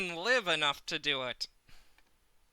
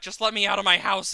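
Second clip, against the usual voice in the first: exasperated plea; 4 semitones higher, 8 dB louder, faster than usual. Real, not acted. Frustrated plea at mobs.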